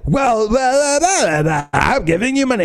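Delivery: high dismissive mock voice, quick at the end; high, sing-song mock of a bored woman. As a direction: sneer it out, waving her off. Mocking her dismissive speech.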